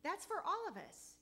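rising fervor. Real, not acted. Testimony turns to preaching.

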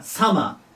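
"サマー" with a short, popped サ; short first vowel. Shown as a demonstration. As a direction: keep the サ in "サマー" quick. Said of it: "サーマーじゃないんでね". (「サマー」のサを短く)

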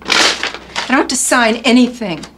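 slow, stubborn refusal; drawn-out petulant defiance; defiant refusal. Acted. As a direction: dig in and refuse, word by word. Drunk mother refuses her son.

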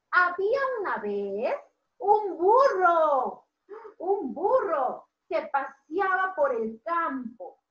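slow, drawn-out story voice; gentle storyteller for a class; storytelling to children. A narrator's reading. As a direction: read it like a tale for little kids. Teacher narrates to children.

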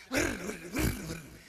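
mock motorcycle revving noise; rolled whirring tyre sound in bursts; imitated engine whirr. (Motorcycle की घर्र-घर्र की नकल)

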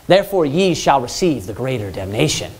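limp, half-hearted preaching; mock timid reading. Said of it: "You know how they have him preaching?".

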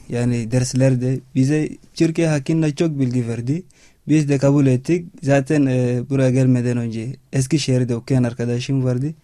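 non-native Turkish with an African accent; halting learner's Turkish, real accent; foreigner broken turkish. Real, not acted. Chadian student speaking learned Turkish.

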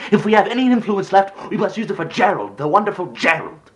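high-pitched sarcastic tirade; indignant outburst, pitch held high; bitter outraged rant. Acted. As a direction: mimic the dismissive parents with furious scorn. Acted rant at parents' favouritism.

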